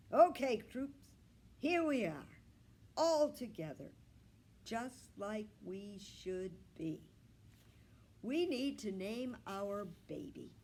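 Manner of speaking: gather the troops with gusto; hearty rallying call. A narrator's reading. Grandpa rallying all his pets together, loud and hearty.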